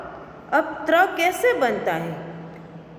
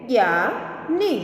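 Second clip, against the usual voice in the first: slow reading. Shown as a demonstration. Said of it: "जैसे कि".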